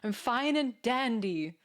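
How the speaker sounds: sing-song "fine and dandy" into a whooping "Woo!"; playful daydream voice ending in a loud whoop; carefree twirling cheer. Pretend. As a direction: skip through a field of dandelions, then cheer out loud. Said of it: "I pictured frolicking through".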